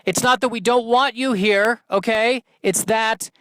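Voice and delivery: high, patient let-down voice; high-voiced alpha bird softening the blow; gentle letdown. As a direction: let the little bird down easy, pitched high. Larger bird letting him down.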